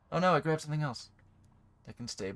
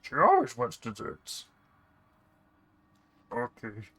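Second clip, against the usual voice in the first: bickering servants. Acted.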